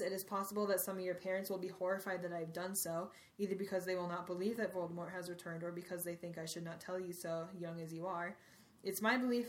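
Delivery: steady, solemn read of a speech; reading aloud. Acted. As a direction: read it like a headmaster's address. Reads Dumbledore's speech aloud.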